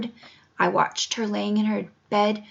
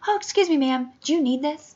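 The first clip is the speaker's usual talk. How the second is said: higher-pitched imitation of a polite officer; suddenly courteous, as a retold quote; lightly mimicked solicitous question; mock politeness; 5 semitones higher than usual. Officers suddenly polite on finding cane.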